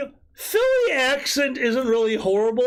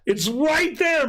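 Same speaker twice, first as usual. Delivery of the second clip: emphatic shout; 6 semitones higher, much slower than usual. Real, not acted. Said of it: "Look, it's all there".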